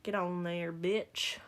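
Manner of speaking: lightly southern-accented muttered cussing; cussing out a stubborn thing, slight southern twang; southern trash talk. Real, not acted. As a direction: scold it with a touch of southern accent. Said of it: "when I shit talk it has a southern accent".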